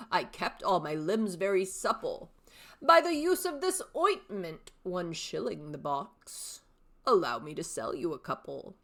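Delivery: lightly voiced old salesman pitch, speeding up at the end; old father. Shown as a demonstration. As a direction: hawk your ointment to your son. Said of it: "three distinct character voices".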